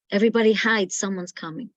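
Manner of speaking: put-on a child at the window raising the alarm; urgent call-out. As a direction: call out sharply to warn everyone to hide. Child at window warns family.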